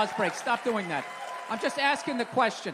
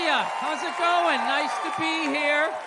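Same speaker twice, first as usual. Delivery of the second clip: timid pushback; slower than usual. Retold or imitated. Husband barking back slowly at his wife's party. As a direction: drag it out like a hesitant guest. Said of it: "you got a little something like".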